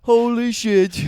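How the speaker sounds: slow, high, loud holy shit; drawn-out amazement; stunned fan. Pretend. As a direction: deaf fan floored by vibrations. Deaf fan voice.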